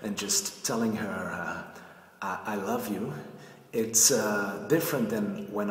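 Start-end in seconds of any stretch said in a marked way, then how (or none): 2.2-3.1 hesitant, stammered love confession, rising on love; less confident. Shown as a demonstration. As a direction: say it unsure, with a halting start. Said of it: "less confidence if I'm talking like this".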